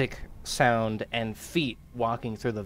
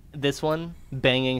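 normal talking voice

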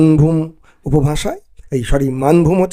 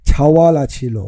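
Bangali dialect reading; slower than usual. Shown as a demonstration. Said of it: "কীভাবে বলতে হবে".

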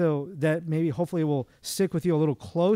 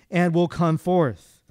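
slow reading; much slower than usual. Acted. Slow scripture close.

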